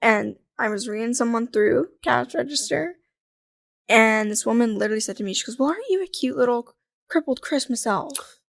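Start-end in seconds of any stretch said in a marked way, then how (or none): 5.6-8.4 lilting retold saccharine remark; mock cutesy. Customer to cashier at busy Christmas time, mock cutesy. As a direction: imitate a customer being cute. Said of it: "now she said it in a, like, "Hee hee, I'm being cutesy".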